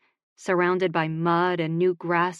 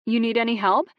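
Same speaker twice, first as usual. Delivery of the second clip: calling out; 5 semitones higher, 4 dB louder than usual. Acted. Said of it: "she called".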